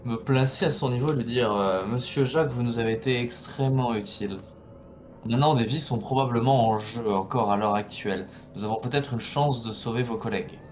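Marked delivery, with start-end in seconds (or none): 1.9-10.6 honeyed voice. Acted. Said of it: "Je vais essayer de prendre une voix mielleuse au possible".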